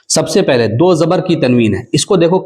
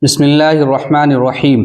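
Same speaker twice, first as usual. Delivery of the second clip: recitation. Shown as a demonstration. Opens Quran reading for class to repeat.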